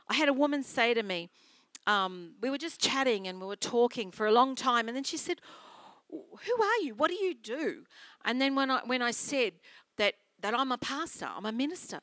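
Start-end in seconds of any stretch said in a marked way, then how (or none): 6.1-7.8 high-pitched, inquisitive imitation; playfully mimicked curiosity; retold curious question. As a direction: quote her puzzled questions, pitched up.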